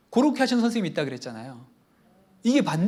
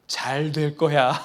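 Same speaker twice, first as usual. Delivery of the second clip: reassuring; 3 semitones lower, 3 dB louder, much slower than usual. Shown as a demonstration. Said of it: "이렇게 얘기해야 되죠".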